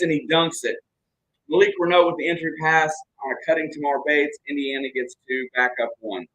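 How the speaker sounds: brisk live game commentary; play-by-play. Acted. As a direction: call the action as it happens.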